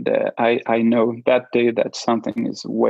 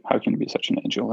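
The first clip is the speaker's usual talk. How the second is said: quick, soft, whispered through tears; breathy imitation of a crying partner; tearful whisper; 5 dB quieter, much faster than usual. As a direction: retell her crying words, hushed and hurried. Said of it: "And she starts crying".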